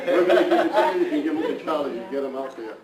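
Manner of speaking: words spilling through laughter; cheerful laughing handover; laughing while talking. Real, not acted. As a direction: keep laughing as you speak. Laughing while handing over flags.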